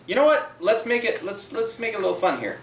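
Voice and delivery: sudden high excited pitch; bursting with an idea. Real, not acted. Excited idea for house rule.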